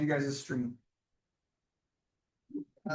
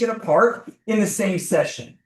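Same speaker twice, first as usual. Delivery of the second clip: yelling; 6 dB louder than usual. Real, not acted. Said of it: "What am I yelling for?".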